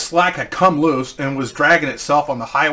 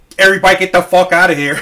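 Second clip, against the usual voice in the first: bad, put-on Boston accent, louder; 4 semitones higher, 7 dB louder than usual. Retelling what a man said after looking under the truck, in a bad boston accent. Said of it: "I don't have a good Boston accent".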